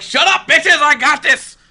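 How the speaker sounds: high, sassy put-down, played for laughs; hammed-up queen telling off her doubters; Khaleesi. Khaleesi telling off those who doubt her, high mock defiance. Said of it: "she's like".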